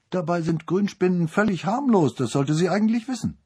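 tut-tut at her; disapproving. A narrator's reading. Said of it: "missbilligend feststellte".

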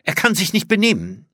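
grim, high-pitched disapproval; grimmig. A narrator's reading. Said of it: "sagte sie grimmig". (grimmig tadelnd)

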